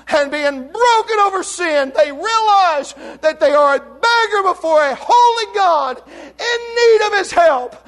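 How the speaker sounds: impassioned revival preaching; preaching at full force. Acted. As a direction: drive the cross home to the congregation. Preaching with music under.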